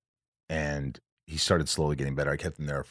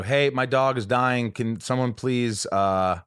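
raised, slow, pleading call for help; retelling calling for a stretcher at the hospital door, raised and pleading; urgent call for help; 5 semitones higher, slower than usual. Retold or imitated. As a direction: beg the staff to hurry. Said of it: "I go".

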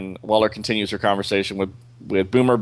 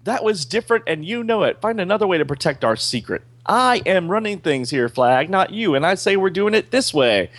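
hammed-up angry boss, higher; mild mock yell; 9 semitones higher than usual. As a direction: snap back at the colonel in anger. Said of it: "she's screaming back".

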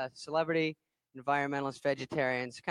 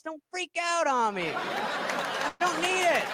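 mock defensive; 6 semitones higher than usual. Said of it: "I'm like".

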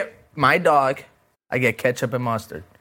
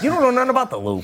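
put-on Chicago accent; 11 semitones higher, faster than usual. Mocking a Chicago know-it-all.

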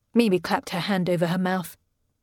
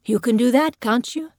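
put-on higher, lifted voice to a child; uncle's persuasive, raised-pitch question; coaxing; 4 semitones higher, 3 dB louder than usual. A narrator's reading. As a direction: coax the boy into agreeing. Uncle coaxing a scared boy.

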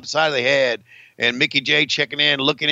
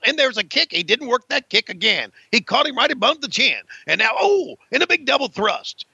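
higher-pitched ringside commentary; live wrestling play-by-play; 6 semitones higher than usual. Pretend. Commentator calling kicks and thrusts, live play-by-play. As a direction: call each strike as it lands.

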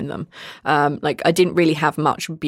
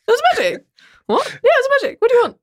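sarcastic; much faster than usual. Retold or imitated. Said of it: "full on sarcasm mode".

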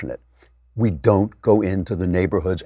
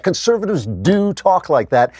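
normal talking voice

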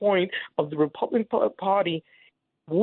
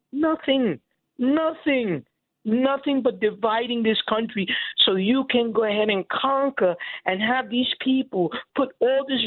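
impassioned anger; 4 semitones higher than usual. Real, not acted. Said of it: "I hear your emotion".

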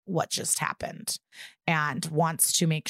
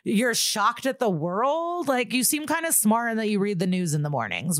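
higher, mock-incredulous retort; irked disbelief, pitched up and pointed; a little pissed; 6 semitones higher than usual. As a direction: imitate someone mildly pissed at a clueless question. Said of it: "Natalie's a little pissed where it's like".

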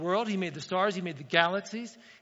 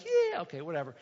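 dismissive. Retold or imitated. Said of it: "you don't have to get all excited".

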